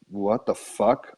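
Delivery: drawn-out, slow disbelief; bewildered. Retold or imitated. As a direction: stretch it out in retold bewilderment. Retelling his bewilderment in the vision.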